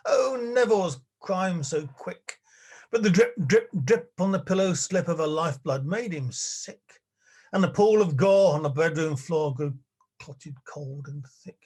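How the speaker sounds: rhythmic, dramatic poem reading with punched phrases; ballad recitation. Acted. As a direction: recite a darkly comic ballad with relish. Reads a comic ballad aloud.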